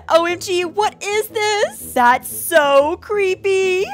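mock-scared friend reading her snap; friend's voice reading a text. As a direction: read the message as a scared friend.

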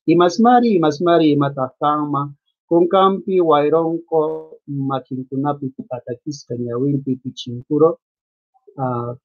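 imasmari recited in a lilting riddle chant; reading a Quechua riddle aloud; riddle recitation. Shown as a demonstration. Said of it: "en quechua se dice imasmari".

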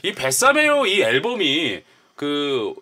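usual speaking voice

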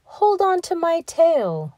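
high, slow sly fox; sly fox coaxing. A narrator's reading. Fox coaxes the gingerbread man onto his tail, high and slow. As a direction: coax him on, slowly. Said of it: "said the fox".

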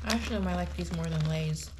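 words slightly muffled by food; talking while chewing. Real, not acted. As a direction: mouth partly full of chips. Seen 0: Chip eaten at -1.0; talks with lips tight, likely chewing.

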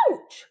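short yelp of pain; sudden acted ouch. A narrator's reading. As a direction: cry out as if pinched. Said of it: "cried Bob".

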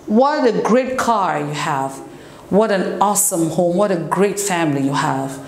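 mildly admiring, lilting praise; positive exclamation. Shown as a demonstration. Teacher demonstrates exclamations of positive emotion, mild admiration. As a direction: admire it with falling exclamatory tune. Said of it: "tu es en train de prouver d'émotion".

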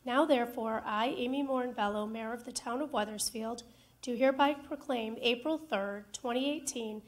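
official decree reading; formal proclamation reading. Acted. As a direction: read it like a ceremonial decree. Mayor reads second proclamation.

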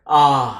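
loud, held "A"; long A sound. Shown as a demonstration. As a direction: stretch "A" out with a firm push. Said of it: "nó dùng âm A dài các bạn". (âm "A" kéo dài, nói to)

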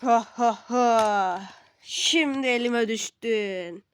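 slow, mock evil laugh; villain gloat. Villain gloats over captive. (yavaş, abartılı kötü adam kahkahası)

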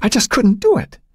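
choking up. A narrator's reading. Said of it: "her voice choking".

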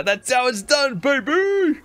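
high-pitched whooping celebration; exultant. Real, not acted. Player rides off on the kangaroo, exultant. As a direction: crow it with delight.

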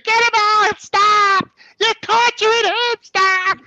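high, loud, drawn-out screams; grandmother screaming. Retold or imitated. Grandmother screaming at the cousins to free him, high yell. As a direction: scream down to rescue a child. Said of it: "my grandmother was screaming up".

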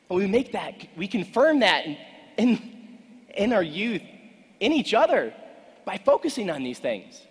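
loud, high, driving keynote delivery; booming motivational speech. Acted. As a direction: preach it at full force.

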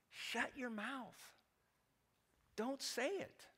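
soft, slow, firm warning; firm hush. Retold or imitated. Pastor advising men privately.

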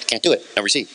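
mock rule-bound refusal. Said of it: "then you say".

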